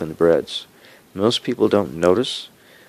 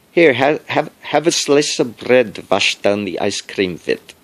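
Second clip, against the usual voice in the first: higher, louder imitation of grandma in a Yiddish accent; 5 semitones higher, 4 dB louder than usual. Grandma pressing bread on him, in a lightly imitated Yiddish accent. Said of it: "A Yiddish accent".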